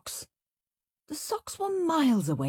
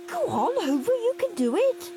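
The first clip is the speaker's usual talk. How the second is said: urging; 3 dB louder than usual. A narrator's reading. Henry urging the hoover on.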